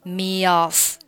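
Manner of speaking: "me off" joined with a y glide, sounding like "me-yoff"; linked vowels. Shown as a demonstration. Teacher showing the glide between the two words. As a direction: slide from "me" into "off" with a y. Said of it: "加上一个一的半元音".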